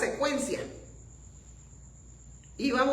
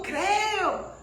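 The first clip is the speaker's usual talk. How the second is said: high cry of belief; acted cry; 10 semitones higher, 8 dB louder than usual. Preacher quoting the man who believed, acted cry. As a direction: cry it out, mildly raised. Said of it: "y gritó".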